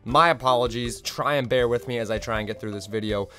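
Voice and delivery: hoarse, recovering from lost voice; rough, scratchy voice still coming back; raspy voice. Real, not acted. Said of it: "I'm a bit more raspy than usual".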